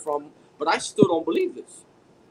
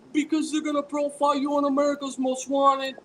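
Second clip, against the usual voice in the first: higher-pitched voice for the sister; retold crying phone call, pitched up; imitating tearful sister; 7 semitones higher than usual. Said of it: "she's crying on the phone".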